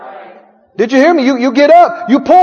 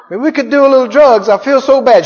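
pleading flesh. Acted. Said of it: "Your flesh says".

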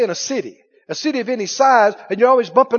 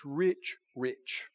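echoing fade; 9 semitones lower, 15 dB quieter than usual. Acted. Repeats word, letting it fade.

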